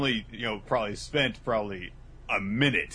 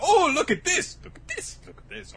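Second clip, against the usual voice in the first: starts high and loud, then fades to a whisper; excited then fading; 5 dB louder than usual. Acted. Mages in a treasure vault, excitement fading. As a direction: gush then trail off breathlessly. Kids in chocolate factory.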